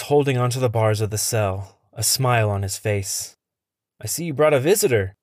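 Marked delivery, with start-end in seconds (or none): 4.0-5.1 quick, raised cheeky announcement; announcing. Acted. Smitty greeting Henry's guest, a quick cheeky announcement. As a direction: announce the visitor with a smirk. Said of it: "Smitty announces".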